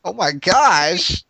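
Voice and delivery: stunned oh my gosh; surprised. Real, not acted. Learning J K Rowling wrote in.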